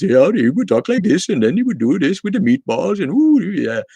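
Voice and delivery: high, loud, sing-song mock Swedish accent; Swedish Chef. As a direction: do an over-the-top cartoon Swedish accent. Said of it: "Remember the Swedish cook from, uh, from the Muppets".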